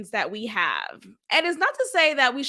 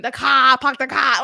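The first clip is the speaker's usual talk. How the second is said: dropped r, pahk the cah; mock Boston accent, r-less; stereotypical Boston accent; 6 dB louder than usual. Mocking the stereotypical Bostonian accent for viewers. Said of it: "the stereotypical Bostonian".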